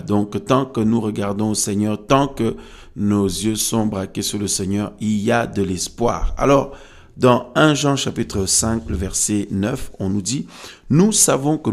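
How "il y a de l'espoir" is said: normal talking voice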